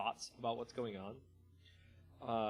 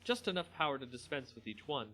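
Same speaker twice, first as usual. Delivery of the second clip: steady storyteller reading a fantasy tale; story narration; 2 semitones higher than usual. A narrator's reading. Narrator reading a Magic story to viewers, measured storytelling. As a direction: read it like an audiobook narrator. Reads story aloud after chat.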